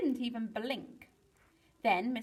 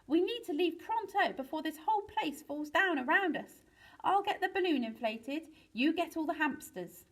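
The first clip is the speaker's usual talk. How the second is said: higher-pitched, pressing urgency; rally everyone to escape; urgent orders; 7 semitones higher than usual. A narrator's reading. Lyle orders escape from the collapsing room, urgent.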